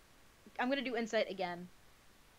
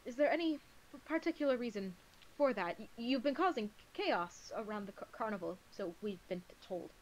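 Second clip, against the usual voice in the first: stammering, nervous character voice; nervous stutter. Acted. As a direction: stumble over the words anxiously. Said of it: "The stutter. It's getting worse".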